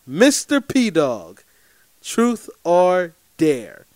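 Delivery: drawn-out, playful challenge; slow teasing quote. Retold or imitated. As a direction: stretch each word like a dare. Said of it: "She says".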